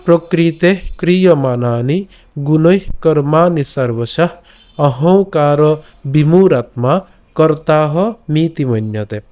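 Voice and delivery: measured Sanskrit sloka reading; slow sloka chant; slow verse recitation. Shown as a demonstration. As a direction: recite the whole verse slowly. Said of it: "আমি আবার প্রথম থেকে যদি শ্লোকটি বলি".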